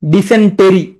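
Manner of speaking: ডিসেন্টেরি as di-sen-TE-ree, each syllable weighted; spelling pronunciation. Shown as a demonstration. Teacher preventing a spelling slip, syllable-by-syllable ডিসেন্টেরি. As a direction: sound the hidden e in ডিসেন্টেরি. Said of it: "তুমি উচ্চারণ করবা".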